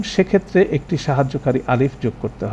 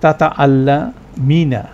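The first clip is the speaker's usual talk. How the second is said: slow recitation; 4 dB louder, slower than usual. Shown as a demonstration. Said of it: "সেটা ছিল স্ত্রীবাচক এক বচন".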